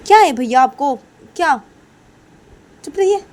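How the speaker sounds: high, loud exasperated sister; hammed-up high-pitched irritation; annoyed retort. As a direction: shut your brother up, loudly. Sister snaps back at brother.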